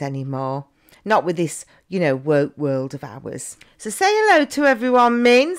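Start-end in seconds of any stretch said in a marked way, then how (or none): 3.8-5.6 coaxing high voice. Acted. Coaxing the toy cow to greet.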